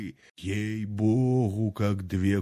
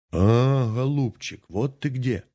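bleating ram's head; 3 semitones higher than usual. Acted. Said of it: "заблеяла баранья голова".

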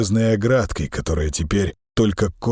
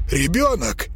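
higher, startled outburst; exclaiming; 10 semitones higher than usual. A narrator's reading. Lyonka realizes a child is buried there, exclaiming. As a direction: blurt it out in shock. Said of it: "воскликнул Лёнька".

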